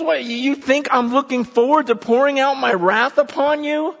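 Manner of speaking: God swearing to his people, loud and high; God pleading. Retold or imitated. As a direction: speak as God, insisting passionately. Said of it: "He goes".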